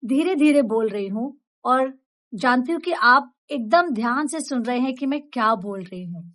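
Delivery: unhurried, each word placed clearly; calm, deliberate delivery. Shown as a demonstration. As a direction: speak steadily so listeners focus. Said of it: "जैसे अभी मैं". (धीरे, साफ़ और आराम से बोलना)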